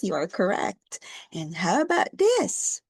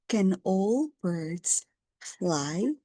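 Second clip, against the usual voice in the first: put-on slow, clear model sentence for the child; slow model reading; 3 semitones lower, slower than usual. Shown as a demonstration. Teacher models the question slowly for James. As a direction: read it out slowly so he can copy. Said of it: "Can you read it, James?".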